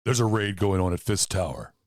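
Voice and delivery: police dispatch over the radio. Pretend. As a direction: read it like a police radio call. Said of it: "in, like, a radio voice".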